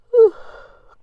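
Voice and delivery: long loud theatrical sigh. Acted. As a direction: heave a big dramatic sigh. Sound on its own.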